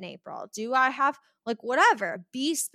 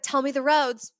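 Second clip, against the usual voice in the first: hint of a demanding mom, pitched up; mock parental order in a higher voice; impersonated mom; 4 semitones higher, 4 dB louder than usual. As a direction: imitate a mom quizzing her kid. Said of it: "impersonating someone".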